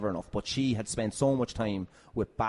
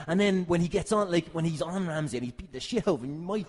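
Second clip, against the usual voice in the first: ordinary delivery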